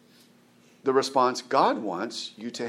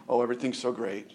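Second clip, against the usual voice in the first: mock fake cheer; 2 semitones lower, 5 dB quieter, faster than usual. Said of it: "put on this air of".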